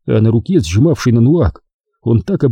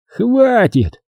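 high, curt command to stop; understated angry snap, pitched up; mild bark; 11 semitones higher than usual. A narrator's reading. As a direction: cut them off with a sharp word. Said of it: "рявкнул Хорд".

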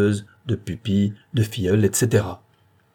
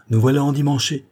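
higher, louder cheerful announcement; smiling, raised playful tone; 6 semitones higher, 5 dB louder than usual. A narrator's reading. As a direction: say it through a smile. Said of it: "dit-elle en souriant".

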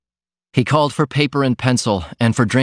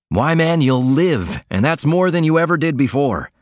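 higher, eager outburst; a man seeing his friend's way out; excited cry; 5 semitones higher than usual. Acted. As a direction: cry it out with sudden conviction. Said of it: "then cried".

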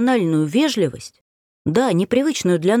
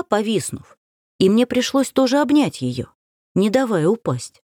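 ordinary delivery, nothing marked

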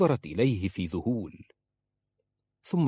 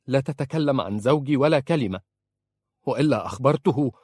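louder, higher sharp warning; angry warning; 4 semitones higher, 5 dB louder than usual. Acted. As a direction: warn him off in anger. She warns him angrily. (تحذير غاضب بصوت عالٍ)

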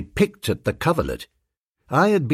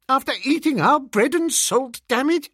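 outraged; 12 semitones higher than usual. A narrator's reading. Bingo outraged.

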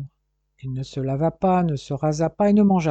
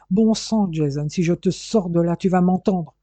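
father's angry relief while dragging his son; exasperated scolding; 2 semitones higher, 3 dB louder than usual. Acted. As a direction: scold him through the fear.

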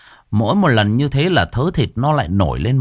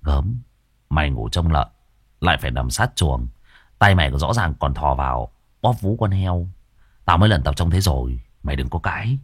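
mocking tease; 4 semitones lower than usual. Dần teasing his friend, low mocking. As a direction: needle him with a sly jab. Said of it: "bắt đầu trả đũa".

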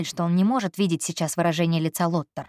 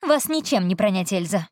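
irritated snort. Acted. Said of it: "раздражённо фыркнула".

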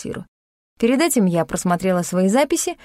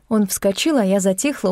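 ordinary delivery

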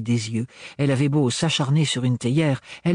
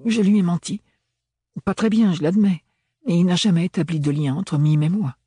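put-on higher, animated young character voice; earnest, higher-pitched self-justification; Ophélie, defensive; 7 semitones higher, 4 dB louder than usual. A narrator's reading. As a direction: explain yourself with raised pitch.

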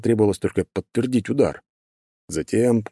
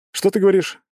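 called aside; 13 semitones higher, 4 dB louder than usual. A narrator's reading. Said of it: "вопрос куда-то в сторону".

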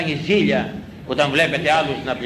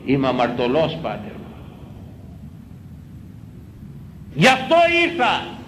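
imitated penitent; 4 dB quieter than usual. Penitent voiced in confession.

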